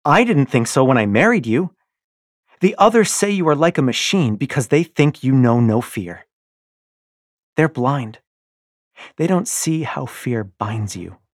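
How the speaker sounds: loud, high, patronizing scorn; wife taunts her husband, loud and mocking; taunting wife. Io taunts Darrow.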